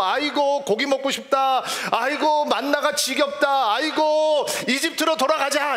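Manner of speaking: imitating a wailing complainer; mock wailing. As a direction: wail like a whining crowd craving meat. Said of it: "통곡을 하면서".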